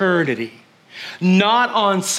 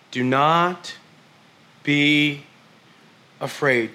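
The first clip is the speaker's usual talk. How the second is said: calm reassurance; 7 semitones lower, 3 dB quieter, much slower than usual. Retold or imitated. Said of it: "Elisha said to him".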